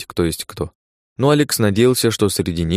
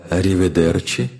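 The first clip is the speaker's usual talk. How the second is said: inhuman voice. Acted. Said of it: "произнёс нечеловеческий голос".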